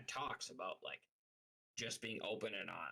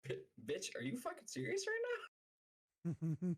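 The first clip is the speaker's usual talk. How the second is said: retold outraged outburst; 8 semitones higher, slower than usual. Retelling how she snapped at a lying friend, slow outraged shout. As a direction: stretch out each word in furious disbelief. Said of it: "I'm like".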